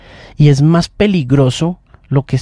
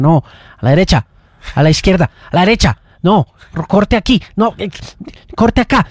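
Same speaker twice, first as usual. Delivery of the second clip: imitating short, insistent commands; mock coaching in brief bursts, rising in pitch; retold instructing; 3 semitones higher, faster than usual. Retells directing his wife's editing.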